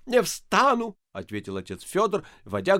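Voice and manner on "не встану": stubborn refusal. A narrator's reading. Priest kneeling, refusing.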